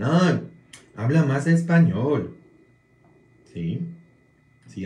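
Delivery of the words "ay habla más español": higher, louder put-on American parishioner; mock gringo voice. Gringo parishioner teasing the priest, mock voice. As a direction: imitate a gringo churchgoer teasing. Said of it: "Siempre dicen".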